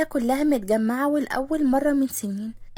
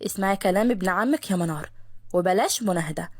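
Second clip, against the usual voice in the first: lower, gentle fatherly advice; calm father; 5 semitones lower than usual. Acted. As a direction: calmly settle the quarrel. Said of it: "قال باباها بهدوء". (الأب بهدوء وصوت أوطى)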